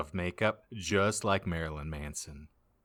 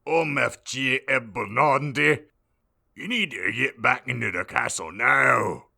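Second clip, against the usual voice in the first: worried Hagrid; 3 semitones higher, 6 dB louder than usual. Acted.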